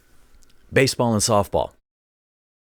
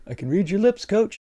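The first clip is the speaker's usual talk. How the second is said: mock eavesdropper; 11 semitones higher than usual. Spy mocking coach from stands.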